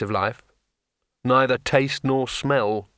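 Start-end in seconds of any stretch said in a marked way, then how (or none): 1.2-2.9 slow sour grumble; grumbling. Acted. Wizard tasting lifeless water, slow grumble. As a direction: complain about the flat water. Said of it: "he grumbled".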